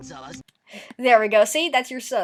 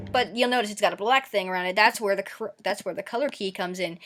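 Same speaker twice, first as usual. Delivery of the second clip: talking fast; faster than usual. Real, not acted. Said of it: "I'm talking really fast".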